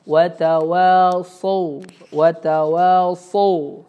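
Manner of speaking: watawasau drawn out slowly with a heavy sad; correct watawasau. Shown as a demonstration. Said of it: "bukan watawasau".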